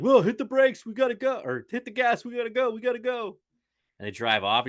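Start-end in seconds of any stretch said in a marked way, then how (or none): 0.0-3.4 panicked Joey. Retold or imitated. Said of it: "Joey's like".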